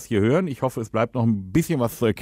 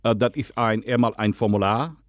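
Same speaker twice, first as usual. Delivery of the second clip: put-on Dutch accent, lisping. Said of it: "rede, lispeln und Holländisch".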